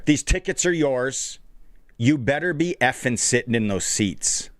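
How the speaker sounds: light Brooklyn accent, imitated; a hint of Brooklyn tough-guy accent; New York accent. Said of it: "in his accent".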